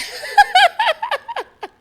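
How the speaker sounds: shrieking burst of laughter; cracking up loudly; high squealing laugh. Real, not acted. Laughs at the memory.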